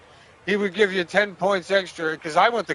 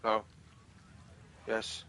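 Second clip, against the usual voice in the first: ordinary talk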